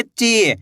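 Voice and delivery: ची with a long, stretched ee; ची, held long as a reading demo; drawn-out long vowel. Shown as a demonstration. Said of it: "बड़ी ई की मात्रा को खींच के पढ़ा जाता है".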